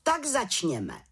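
lightly voiced head witch proclaiming; head witch calling out. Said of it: "zvolala vrchní čarodějnice".

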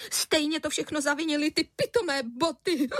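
a touch of sobbing through the words. Acted. Mother sobbing to husband about the shoes, tearful.

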